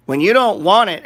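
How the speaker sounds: fired up, hammering "don't"; excited. Real, not acted. Trader ranting to viewers about buying dips, loud and excited.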